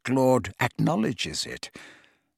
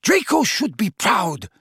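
indifferent; 8 semitones higher, 3 dB louder than usual. A narrator's reading. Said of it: "said Bellatrix indifferently".

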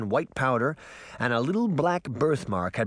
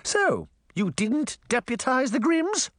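ranting queen; 12 semitones higher than usual. A narrator's reading. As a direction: whip the crowd up against the mayor. Queen challenges mayor.

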